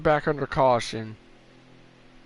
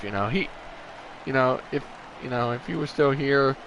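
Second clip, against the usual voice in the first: sad; 3 semitones lower, 6 dB quieter than usual. Real, not acted. Tribute to a friend who died.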